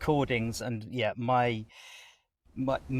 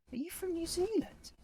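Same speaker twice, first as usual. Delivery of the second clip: high, soft, tentative query; tentative retold question; 7 dB quieter than usual. Man asking his new neighbour where she's from, tentative. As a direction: ask softly and high, lifting at the end.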